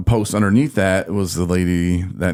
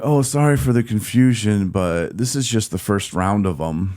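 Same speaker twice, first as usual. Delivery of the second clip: mock apology; 3 semitones higher than usual. Imitating the organization's email reply, mock apologetic. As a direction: imitate a breezy official apology, slowing at the end.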